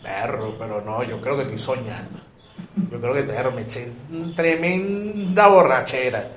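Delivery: half-asleep hungover mumble; groggy drunk. Acted. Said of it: "borrachín thinks he is dreaming". (el borrachín se cree soñando, voz grave y adormilada)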